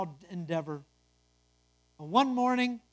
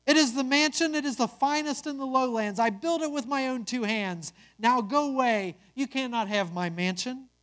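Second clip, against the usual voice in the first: raised and stubborn, claiming the hut as a mansion; defiant indignation; 4 semitones higher, 4 dB louder than usual. Acted. Hut brother refusing the stranger at his door, indignant. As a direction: protect your home from the stranger.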